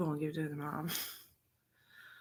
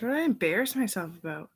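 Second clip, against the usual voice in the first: louder question; 3 semitones higher, 5 dB louder than usual. Real, not acted. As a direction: ask yourself out loud. Repeats question aloud then whispered.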